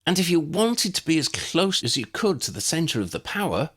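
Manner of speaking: a lightly voiced young woman, high and polite; girl's voice asking a favour; Lydia's voice. A narrator's reading. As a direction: ask it as the girl, politely.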